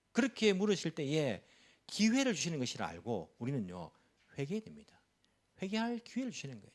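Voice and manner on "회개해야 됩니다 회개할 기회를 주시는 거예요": urgent hushed whisper, a bit quick; whispered plea to the congregation. Real, not acted. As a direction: lean in and whisper the call to repent. Pastor urges repentance intimately.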